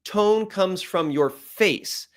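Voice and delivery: "Tone comes from your face" slow and deliberate; slow, weighted restatement; emphatic repeat. Shown as a demonstration. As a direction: space out each word up to "face". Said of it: "Let me say that again".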